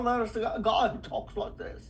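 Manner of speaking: lightly exaggerated accent from England; regional English accent. Shown as a demonstration. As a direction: switch to another English accent. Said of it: "different accents in England".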